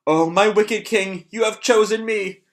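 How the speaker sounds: hammed-up rapture from the fat cultist; fat cultist rejoicing. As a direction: swoon over being chosen. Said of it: "reaches out to the fat guy".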